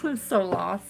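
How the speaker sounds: talking through a yawn; sleepy, mid-yawn words. Real, not acted. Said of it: "Sorry, I'm yawning".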